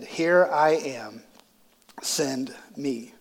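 hushed reply. Acted. Quoting Isaiah's answer, hushed.

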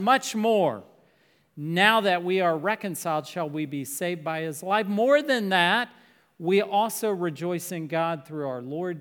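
solemn reading of scripture aloud. Acted. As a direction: read the Bible passage with weight and emphasis. Reads Romans aloud from the pulpit.

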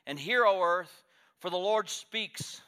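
booming divine proclamation; voice of God. Acted. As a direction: thunder it like God calling heaven to witness. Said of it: "And he says".

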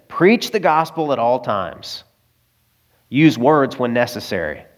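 slow, measured recital with a pause midway; deliberate quotation. Acted. Preacher presents a famous saying to congregation, deliberate quotation. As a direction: recite it line by line, unhurried.

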